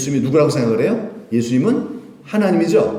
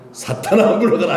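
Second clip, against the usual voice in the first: commanding rebuke; 4 semitones higher, 3 dB louder than usual. Shown as a demonstration. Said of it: "예수님처럼 뭐 해야 돼요".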